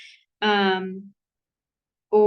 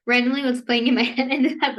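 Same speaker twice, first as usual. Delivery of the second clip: words broken by real laughter; laughing through it; 3 semitones higher, 4 dB louder, faster than usual. Real, not acted. Amused vlogger telling viewers what's stuck in her head, laughing. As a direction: laugh while admitting the song in your head.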